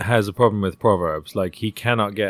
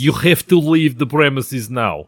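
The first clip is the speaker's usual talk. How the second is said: Russian accent; 2 semitones higher than usual. Shown as a demonstration. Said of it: "like me doing a Russian accent".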